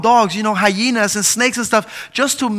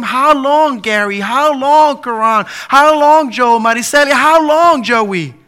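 rising, ever louder how long with each name; building call; 3 semitones higher, 5 dB louder than usual. Real, not acted. Pastor calling congregants by name, building to a shout.

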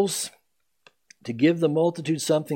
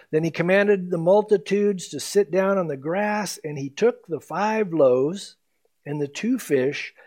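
scripture reading. Acted. Rereading verse nineteen.

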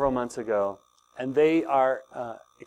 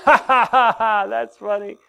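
loud, higher hammed-up laugh; mock laughter; 7 semitones higher, 6 dB louder than usual. Grandfather and grandson laughing at silly song: hammed-up laugh. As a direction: laugh it big like playing along. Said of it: "then we would just laugh".

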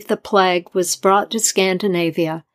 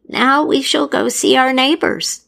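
put-on gentle old woman; 6 semitones higher than usual. A narrator's reading. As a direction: speak gently like a kind grandmother. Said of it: "the crone said gently".

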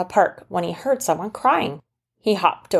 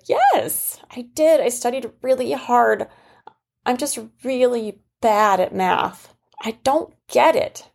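put-on much higher, childlike girl voice, pleading; a little girl insisting she really studied; upset little girl; 6 semitones higher than usual. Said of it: "and she said".

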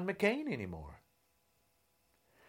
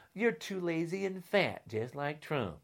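much softer, muttered taunt; quiet repeat; 9 dB quieter than usual. Real, not acted. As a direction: drop the voice and sneer it again. Angry rant repeated then muttered.

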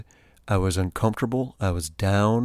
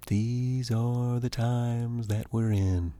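slow and softer, with weight; slow, soft, solemn; 4 dB quieter, slower than usual. Real, not acted. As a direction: let it sink in gently. Repeated slower, softer.

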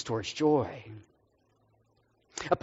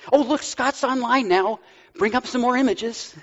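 higher, chirpy mock eager voice; the internet spotting Scott online, high and mock eager; 8 semitones higher than usual. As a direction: play the nosy internet. Voicing the internet.

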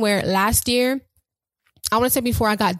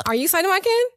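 cutesy high voice; 11 semitones higher than usual. Acted. Asking her Ken in cutesy voice.

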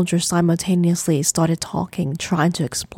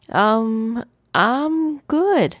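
high brush-off; 5 semitones higher, much slower than usual. Acted. Brushing off the worried ancestor.

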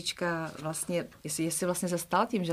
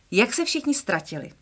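storybook reading, lively and clear; expressive children's story reading; reading a children's book aloud; 4 dB louder than usual. Acted. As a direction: read it like a bedtime story. Reads the book aloud to listeners.

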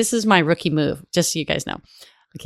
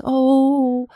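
high, disappointed mock wife voice; high and a little let down; the wife accepting she can't switch seats, high voice; imitating the wife; 8 semitones higher, slower than usual. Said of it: "And she goes".

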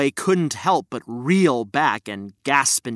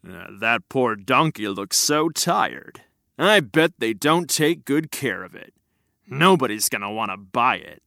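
guard; 5 semitones lower than usual. Acted. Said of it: "one of the guards exclaim".

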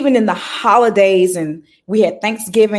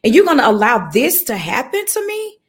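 higher, pleading outrage at God; retold anguished questioning of God; mad at God; 8 semitones higher than usual. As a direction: cry out to God in disbelief and anger. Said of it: "I was so mad at God".

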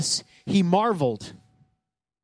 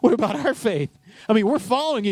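disciples whining; 4 semitones higher than usual. Retold or imitated. Can you imagine you were there.

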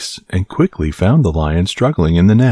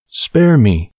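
lightly higher pleading mouse voice; begging mouse; 6 semitones higher than usual. A narrator's reading. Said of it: "begged the poor mouse".

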